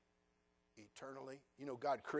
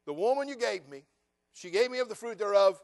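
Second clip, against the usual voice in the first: whiny excuse; 6 semitones higher, 11 dB louder than usual. Acted. Adam blaming Eve.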